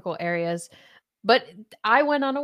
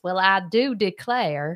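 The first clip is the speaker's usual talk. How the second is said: mock Southern accent. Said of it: "Michael just constantly says".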